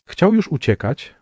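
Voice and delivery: ordinary delivery, nothing marked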